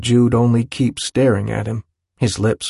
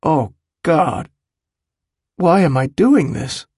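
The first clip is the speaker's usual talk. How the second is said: high, despairing inner voice; anguished dismay; 6 semitones higher than usual. A narrator's reading. Willem thinks about his own yelling, anguished. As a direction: question yourself in horror.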